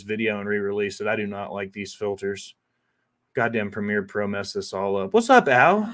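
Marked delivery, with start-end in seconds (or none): 5.1-5.9 loud rising hey there; plain loud hello; called-out greeting. Real, not acted. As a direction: call it across the room. Calling out a greeting to Al.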